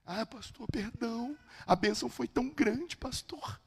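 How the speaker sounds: high, soft voice of an overwhelmed man; imitated tearful apology. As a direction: apologize meekly, as if still moved. Overcome father apologizing to pastor. (pedido de perdão imitado, choroso e baixinho)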